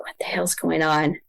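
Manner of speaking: hushed, breathless whisper; a frightened whispered what the hell; whispered alarm. Retold or imitated. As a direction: whisper it like you're scared to be heard. Alarmed inner thought in vision.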